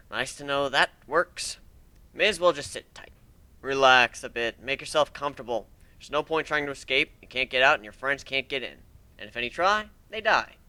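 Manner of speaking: calm menace, taunting the trapped; quiet smug villain, lightly voiced; gloating captor. Villain creature voice held.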